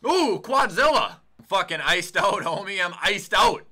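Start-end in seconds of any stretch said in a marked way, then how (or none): 0.1-1.2 high, loud, drawn-out hype; hyped shout. Real, not acted. Gamer hyping a big play, in a slow, high, loud shout. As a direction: stretch it out, thrilled, loud and high.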